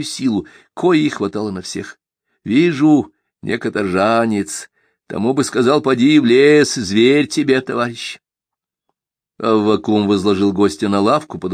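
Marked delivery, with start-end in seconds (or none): 2.4-8.2 put-on kindly old hermit, raised pitch; lightly voiced gentle old man; old man Avvakum voice.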